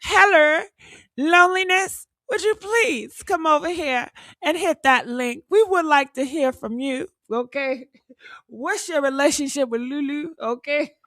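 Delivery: light English accent invitation; mock English accent. Shown as a demonstration. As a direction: greet her in a hammed-up English accent. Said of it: "should I put a English accent on it?".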